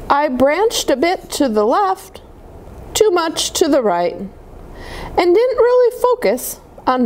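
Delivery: put-on gentle read-aloud voice for children; storybook reading. A narrator's reading. Reading a snowman picture book to kids, storytelling voice. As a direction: read it like bedtime story time.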